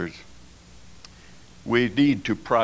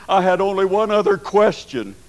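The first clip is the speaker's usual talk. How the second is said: excited build; 7 semitones higher, 6 dB louder than usual. Retold or imitated. Mounting suspense in story.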